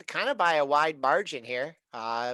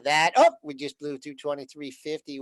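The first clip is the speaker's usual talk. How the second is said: usual speaking voice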